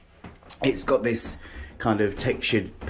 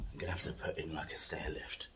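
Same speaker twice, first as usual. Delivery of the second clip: whispering; 4 semitones lower, 11 dB quieter than usual. Real, not acted. Joking aside about stair lift.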